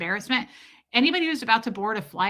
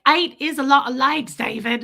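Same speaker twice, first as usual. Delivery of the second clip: a mom's gentle sing-song scolding, louder; cute mom voice; 3 semitones higher, 5 dB louder than usual. Retold or imitated. Movie mom gently chides her son David about his likes, sing-song. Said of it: "And she was like".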